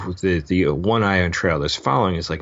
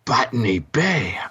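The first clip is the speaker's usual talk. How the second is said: mock alarm; 11 semitones higher than usual. Star Trek Botany Bay gag.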